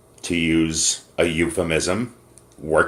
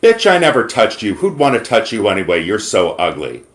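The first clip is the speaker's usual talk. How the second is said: mock angry retort. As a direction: throw the insult at her. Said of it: "he turns around and says".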